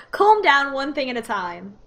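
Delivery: shaky attempt at a British accent. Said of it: "I don't think I can do a consistent British accent".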